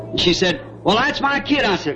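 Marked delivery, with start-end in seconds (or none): 0.8-1.6 imitated wife's objection, pitched high; indignant protest. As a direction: mimic a mother protesting in a higher voice. Acting out wife's repeated protest.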